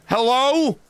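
high sing-song hello with a falling end; mocking high-pitched greeting; taunting hello. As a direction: call up high to bait him. Taunting an enemy to react.

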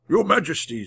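understated cry of amazement; amazed cry. A narrator's reading. Magician sees the king walking toward him, amazed. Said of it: "Merlin cried out in amazement".

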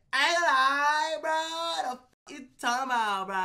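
zesty mock New York accent; Ray's New York accent. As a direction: exaggerate a bad attempt at New York talk. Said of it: "he sounds zesty as fuck".

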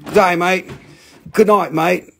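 cheery attempt at Australian; mock Australian accent. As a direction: imitate an Australian saying mate. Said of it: "that's not Australian".

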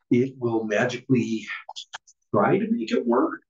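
oversell it like magic; mock magical promise. Shown as a demonstration. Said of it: "with heavy emphasis on the".

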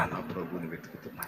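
"నా ప్రభువుని వెతుకుతున్నా." repeated very softly, almost breathed; hushed echo. Acted. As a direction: let the repeat fade to a whisper.

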